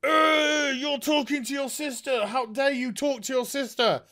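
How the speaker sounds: high, whiny voice scolding a sister; mimicking a villain who scolds a sibling; mocking Mouse voice. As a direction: lampoon her as shrill and preachy. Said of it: "Mouse is just like".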